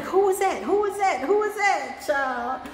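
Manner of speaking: high, excited clubgoer voice; amazed clubgoers. Retold or imitated. Clubgoers asking who the dancer was, high and thrilled. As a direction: ask it high and thrilled, like you just saw a star. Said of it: "They'd be like".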